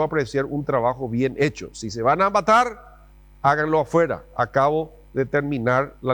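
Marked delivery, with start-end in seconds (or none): 1.7-4.2 a hint of a stern mother; scolding mom. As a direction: play the exasperated mom. Mom's warning, acted.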